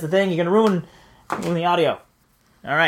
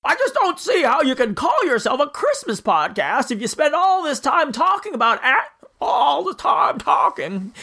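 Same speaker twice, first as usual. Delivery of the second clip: higher, slower stammering Stewart drawl; George Bailey impression; 5 semitones higher than usual. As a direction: drag it out like Jimmy Stewart. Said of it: "The impression really comes and goes".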